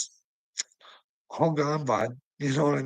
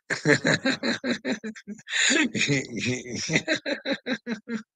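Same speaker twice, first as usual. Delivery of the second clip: long laugh; 11 semitones higher than usual. Real, not acted. Streamer laughing at chat.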